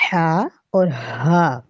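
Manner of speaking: ہا from mid throat with friction, then the other ہا; two h sounds. Shown as a demonstration. Teacher demonstrating two h letters slowly. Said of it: "جن کی آواز mix ہو جاتی ہے".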